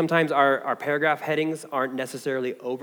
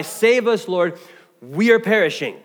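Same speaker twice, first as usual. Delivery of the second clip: "Save us" cried out higher and louder; earnest cry; 3 semitones higher, 5 dB louder than usual. Shown as a demonstration. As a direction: cry it out as the church's own plea for rescue. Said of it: "this ought to be our cry".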